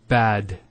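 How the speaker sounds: bad with a drawn-out A; long A. Shown as a demonstration. Teacher demonstrating bad with a long A. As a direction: stretch the A in bad. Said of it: "Notice the elongation of the A sound".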